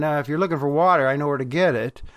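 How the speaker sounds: quick, understated casual aside; offhand remark. Retold or imitated. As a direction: toss it off casually, in passing. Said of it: "This wasn't simply Jesus, uh, clearing his throat".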